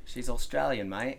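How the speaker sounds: half-hearted Australian accent; lightly put-on Australian; attempted Australian accent. Shown as a demonstration. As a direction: try Australian, drifting towards British. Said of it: "It kinda goes British".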